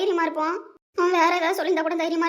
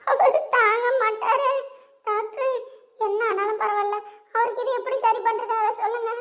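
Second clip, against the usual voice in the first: higher, slow broken begging; sobbing plea; 5 semitones higher, slower than usual. Acted. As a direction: cry while pleading with the doctor. Wife begs doctor tearfully. (அழுதுகொண்டே மருத்துவரிடம் கெஞ்சல்)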